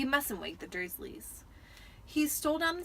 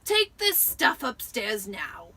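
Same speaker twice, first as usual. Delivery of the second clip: snapped; 7 dB louder, slower than usual. A narrator's reading. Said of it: "snapped his uncle".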